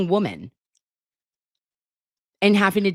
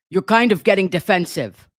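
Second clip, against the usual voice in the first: imagined texter; 4 dB louder than usual. Retold or imitated. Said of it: "how I picture him typing".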